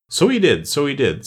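mildly wistful agreement; sighing in turn. A narrator's reading. Griffin agrees with the Mock Turtle, sighing mildly. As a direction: echo it with a touch of a sigh. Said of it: "sighing in his turn".

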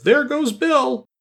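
high, slow crowd cheer; the whole crowd crying out together; chorus cry. Acted. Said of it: "general chorus of".

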